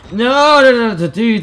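high loud panicked no; scared yelp. Real, not acted. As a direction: panic at a sudden threat. Sudden scare.

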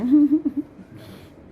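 bright burst of laughter; high laugh. Real, not acted. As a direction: laugh out at the trimmed pet. Laughing at trimmed rabbit. (หัวเราะเสียงสูง)

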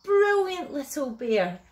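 high, loud burst of praise; thrilled grandma cheering the cub on; delighted praise. A narrator's reading. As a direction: praise brightly, starting high and easing down. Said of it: "laughed Grandma".

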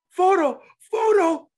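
mock starstruck fan voice; imitating excited fan. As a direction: squeal photo like a starstruck fan. Imitating the fan's excited answer.

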